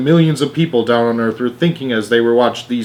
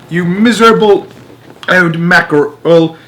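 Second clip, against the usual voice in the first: put-on cranky old woman; 6 semitones higher, 5 dB louder than usual. A narrator's reading. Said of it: "said Grandma Georgina".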